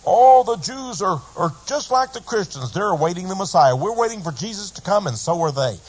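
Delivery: high, quick mocking parody of other preachers. The preacher mocking televangelists to his listeners, high and quick. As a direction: lampoon their claim in a sing-song. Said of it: "John Hagee to Jerry Falwell say".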